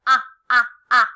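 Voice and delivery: "Ah, ah, ah" as short, loud separate bursts; loud repeated phonics "Ah, ah, ah"; starting sound. Shown as a demonstration. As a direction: punch out "Ah, ah, ah" one by one. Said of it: "What does it start with?".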